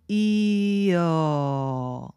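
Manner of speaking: 이어 stretched very slowly, gliding from ee into uh; slow glide ee to uh. Shown as a demonstration. Teacher leading students through a slow 이어 glide. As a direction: slide 이어 slowly so the y sound appears. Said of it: "여러분 지금 함께 해보실게요".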